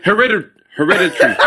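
"hereditary" squeezed short, as he-RED-i-tree; how they'd say it. Shown as a demonstration. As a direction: say "hereditary" quickly, ending in "tree". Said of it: "that's how they would say it".

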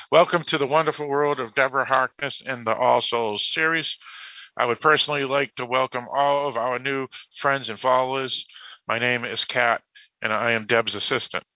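measured announcer-like read; deliberate read-aloud delivery; reading a post aloud. Real, not acted. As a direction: read the welcome message out to listeners. Reads a posted message.

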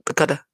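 vodka's last syllable picked out; emphasis on vodka's ending. Shown as a demonstration. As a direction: demonstrate the "ka" of vodka. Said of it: "an emphasis on the".

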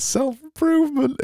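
squeaky mock uplift.

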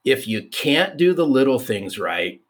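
high-pitched opening, easing down; imitated mother-in-law. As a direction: lightly voice a mother-in-law laying down a lesson. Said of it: "And she says".

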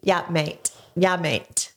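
put-on Australian accent.

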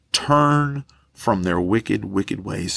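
slow it down and let it sink in; slow repeated verse. Shown as a demonstration. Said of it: "And turn from their wicked".

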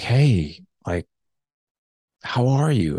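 imitated friendly hello, lifted in pitch; retold friendly how-are-you; friendly greeting. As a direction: act out a tentative, friendly greeting. Estranged father greets him.

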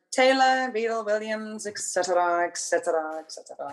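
teacher calling out an endless name, fading away; lightly mocked dance teacher's roll call; imitated roll call. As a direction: reel it off, trailing down on each "et cetera". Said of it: "I used to have a dance teacher when I was really young who used to say".

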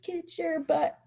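high, tight, held-down anger; retold mad order. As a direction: reenact ordering a child through your anger. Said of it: "I'm so mad".

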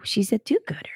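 mock pious whisper; sarcastic whisper.

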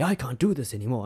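a bad, lightly put-on British accent; mock Piers storming off in a clumsy British accent; horrible British accent. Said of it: "That's a horrible accent".

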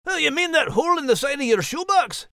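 put-on light French accent for a cat; a polite French feline, lightly accented. Cat Liz asks.

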